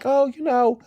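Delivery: high, airy, offhand voice; partner quoted. Retold or imitated. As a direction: brush it off lightly. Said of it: "And he's like".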